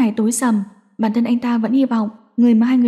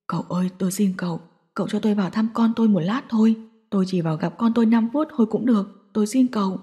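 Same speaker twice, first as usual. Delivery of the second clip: pleading; 3 dB quieter than usual. Acted. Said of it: "phải xuống nước năn nỉ".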